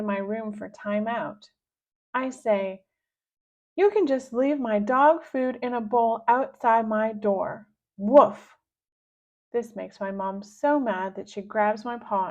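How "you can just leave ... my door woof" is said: put-on playful kid begging like a puppy, ending in a loud woof; child voicing a dog; dog-girl talk. Girl to her mom, playing dog, barking woof.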